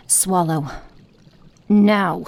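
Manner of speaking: loud, harsh order to swallow; loud command. Acted. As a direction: force the word out like a slap. Forcing the potion down.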